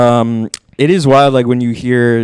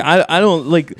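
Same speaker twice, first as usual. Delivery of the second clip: put-on ranting old New Yorker; 4 semitones higher, faster than usual. Super voiced ranting.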